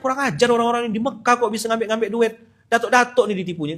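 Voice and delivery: fast, high, heated telling-off; retold outburst. Preacher recalling his anger at the Mecca swindlers, heated. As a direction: blurt it out like you're fuming. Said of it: "emosi betul".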